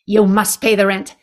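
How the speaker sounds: hint of a sneering landlord demanding rent; sneering panto villain. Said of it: "this is the world's shortest play".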